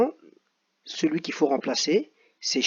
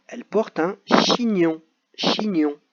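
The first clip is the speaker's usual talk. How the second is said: chignon drawn out slowly, stressed; slow teaching voice; 2 semitones higher, 4 dB louder, slower than usual. Shown as a demonstration. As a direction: spell the word out by ear. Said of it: "la fille". (chignon articulé lentement)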